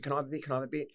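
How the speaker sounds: put-on a touch of a pleading teenager; eager kid's plea. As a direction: pester her like an excited kid. Kid begging for heroin.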